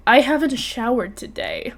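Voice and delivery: slow, dazed blurt, retold; stunned. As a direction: blurt it slowly as if dumbstruck. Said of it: "'cause I'm stunned".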